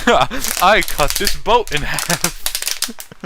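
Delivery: slow, drawn-out grand proclamation; hammed-up heroic boast, stretched out; like a movie villain showing off his might; mock epic boast. Mock-epic demonstration of power.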